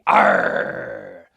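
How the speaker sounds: angry pirate "arr", loud, low and long; angry pirate yell. Shown as a demonstration. Pirate showing how an angry arr sounds, low angry yell. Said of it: "And if we're angry".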